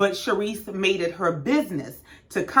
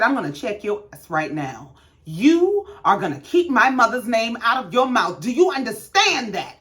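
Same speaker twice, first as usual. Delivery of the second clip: mock angry threat. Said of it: "Karen went off the deep end".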